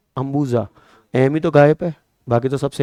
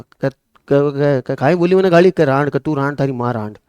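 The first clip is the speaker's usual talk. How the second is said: 1 stammering mock rage; 3 dB louder than usual. Acted village quarrel, stammering rage.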